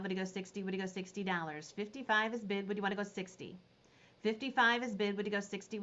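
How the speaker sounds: quick, rhythmic auction patter repeating the bid; auctioneer call. Acted. Auctioneer calling bids to the Facebook viewers, quick rhythmic patter.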